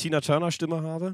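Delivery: hoarse smoker's voice; raspy, worn voice after a night out; smoker's rasp. Real, not acted.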